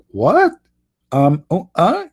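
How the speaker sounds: squeaky what and uh, shooting way up; she's thrown completely; shocked. Acted. Fiancée shocked by the sunset question, high and baffled. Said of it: "She will be shocked".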